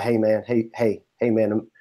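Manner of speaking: lightly put-on Southern country accent; a touch of Southern twang. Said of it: "the South country".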